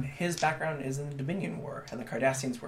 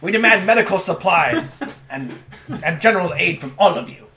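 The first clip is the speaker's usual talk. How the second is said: demanding Cardassian; 6 semitones higher, 9 dB louder than usual. Acted.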